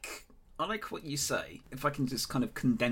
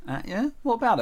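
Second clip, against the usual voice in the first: defiant so what; 12 semitones higher, 9 dB louder, faster than usual. Acted. Acting a retort to insult.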